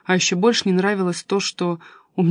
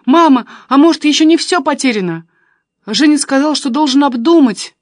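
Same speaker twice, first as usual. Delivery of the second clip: tearful; 7 semitones higher, 8 dB louder than usual. A narrator's reading. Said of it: "не реви".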